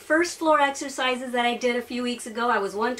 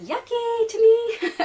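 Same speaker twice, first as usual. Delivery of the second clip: laughing; 10 semitones higher, 3 dB louder, slower than usual. Real, not acted. Laughing about disliked water.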